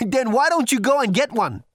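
loud, high booming thunder god. A narrator's reading. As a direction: boom like a menacing god. Thor voiced.

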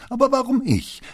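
put-on why me, with full teenage indignation; indignant protest. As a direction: daughter protesting to her father, outraged. Daughter protests errand.

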